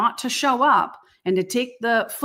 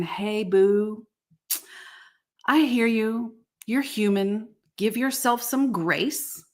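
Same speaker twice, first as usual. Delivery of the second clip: gentle reassuring friend; slower than usual. Pretend. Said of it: "Your bubble chart is looking at you saying".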